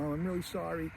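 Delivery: soft, imitated little-boy apology; heartfelt apology. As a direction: say sorry softly and sincerely to mom. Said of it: "it's a very heartfelt little moment".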